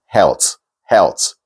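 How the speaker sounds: "health" ending in a hard T, like helt. Shown as a demonstration. Singing teacher showing singers' error, "health" ending in T. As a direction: say "health" with a T for the final TH. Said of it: "singers tend to pronounce such words as T".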